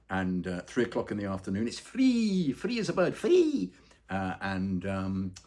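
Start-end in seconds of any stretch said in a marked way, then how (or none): 1.7-3.7 high, loud sing-song "free"; delighted high-pitched announcement; gleeful. Real, not acted. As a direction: crow it like great news. Joyful plug for a free event.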